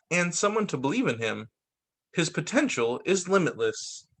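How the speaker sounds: measured read-aloud storytelling; picture-book narration. A narrator's reading. Reader sharing a book on ADHD, picture-book narration. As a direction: read it out clearly, phrase by phrase.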